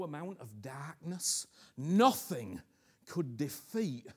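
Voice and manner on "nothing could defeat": sudden loud NOTHING; loud shouted nothing. Real, not acted. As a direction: burst out on nothing. Preacher's emphatic cry.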